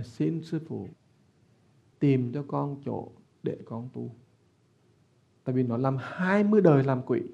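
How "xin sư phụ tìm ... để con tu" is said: ghost's strange voice. Retold or imitated. Possessing ghost begging the monk for help, in a lightly voiced eerie plea. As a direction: let a spirit plead through a borrowed voice. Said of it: "Cái giọng nó khác".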